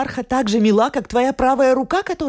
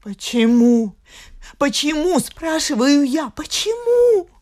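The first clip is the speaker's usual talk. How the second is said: pleading; 6 semitones higher, slower than usual. Acted. Wife pleads, voice rising to tears.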